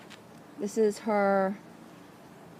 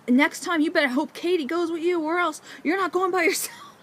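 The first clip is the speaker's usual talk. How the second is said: higher, louder, warning husband; stern warning; 10 semitones higher, 4 dB louder than usual. Retold or imitated. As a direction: lay down the rule firmly. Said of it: "He's like".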